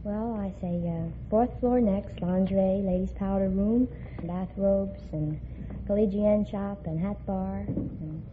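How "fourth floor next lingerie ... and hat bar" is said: elevator call. Shown as a demonstration. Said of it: "could you call out a few floors for us?".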